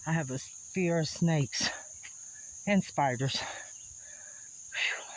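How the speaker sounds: breathing hard between words; winded, talking through heavy breaths. Real, not acted. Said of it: "Forgive me for breathing so hard".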